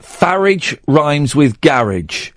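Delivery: "Farage" and "garage" as FARR-ij and GARR-ij, slowly; slow, matching front stress on "Farage" and "garage"; Farage rhyming with garage. Shown as a demonstration. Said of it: "I've heard him say it".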